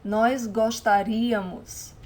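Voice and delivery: slow "gostaríamos", stressed on "rí". Shown as a demonstration. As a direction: model "gostaríamos" slowly, leaning on the í. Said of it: "I'll say this one again".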